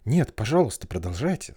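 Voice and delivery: gentle begging tone; pleading. Acted. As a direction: ask nicely, pleading. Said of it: "сказала Алиса просительно".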